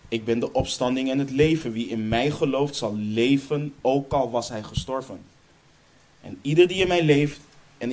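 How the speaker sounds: scripture read with rising force, peaking on "ieder"; plechtig voorgelezen bijbeltekst. Acted. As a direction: declaim the verse like a promise. Reads the key verse aloud. (plechtig voorgelezen, steeds krachtiger)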